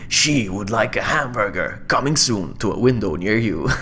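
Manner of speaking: lightly imitated trailer announcer. Trailer voice guy relaying a drive-thru order, mock epic. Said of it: "the guy with the epic voice".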